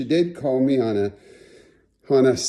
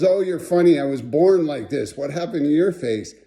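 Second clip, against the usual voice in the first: mild mock comeback, near usual voice; imitated unimpressed retort. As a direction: toss the question back, unimpressed. Friend throws the question back.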